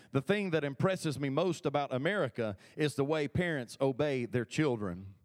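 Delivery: dry sarcasm, slowing on the punchline; quoting the Duke of Windsor with dry sarcasm; sarcastic quote. Retold or imitated. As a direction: lean into the irony of the last words. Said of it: "somebody say sarcasm".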